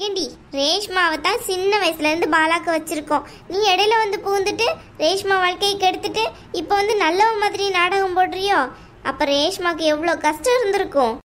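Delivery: a domineering aunt, coldly dismissive; mother-in-law telling the bride to leave the house, scornful. Acted. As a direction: lay down the law to the unwanted daughter-in-law.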